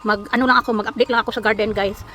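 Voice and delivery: speaking after a tooth pulled; after tooth extraction. Real, not acted. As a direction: talk with a sore, gappy mouth. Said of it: "excuse my voice dahil I just had tooth extraction".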